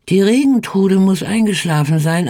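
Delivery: Regentrude lifted high with a rising tune; a touch of hushed wonder about the Regentrude; hopeful. Acted. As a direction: raise the voice on Regentrude, hopeful and eager. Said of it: "sagte die Frau".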